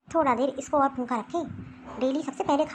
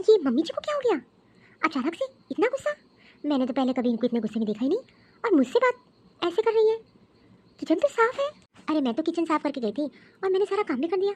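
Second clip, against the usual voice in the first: puzzled daughter-in-law; 2 semitones higher than usual. Acted. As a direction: wonder aloud why she is scolded. Daughter-in-law wonders to herself.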